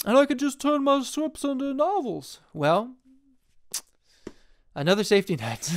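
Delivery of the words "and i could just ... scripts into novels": higher and louder, struck by a new idea; light up with the backup plan; excited idea. Pretend. Filmmaker pitching himself a novel backup plan, higher and excited.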